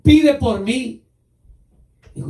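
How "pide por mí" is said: slow, drawn-out, louder begging; begging plea. Retold or imitated. King Saul begging the prophet to pray, slow desperate plea. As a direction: stretch it out like a desperate beg. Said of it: "rogándole al profeta".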